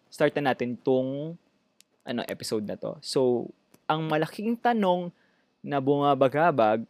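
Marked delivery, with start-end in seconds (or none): 3.0-6.8 talking while burping. Real, not acted. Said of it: "nadighay ako".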